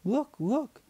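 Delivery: put-on high, loud child's squeal; eight-year-old spotting an animal, shrieking; excited shriek. A narrator's reading. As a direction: shriek it like a thrilled kid. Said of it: "Tina shrieked".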